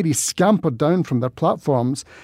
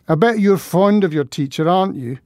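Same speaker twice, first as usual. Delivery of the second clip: hysterical and mean; 3 semitones higher than usual. Acted. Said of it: "Her voice sounded hysterical and mean".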